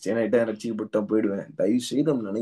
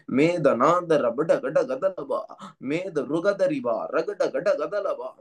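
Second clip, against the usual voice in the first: speaking in tongues; much slower than usual. Acted. Speaking in tongues during prayer.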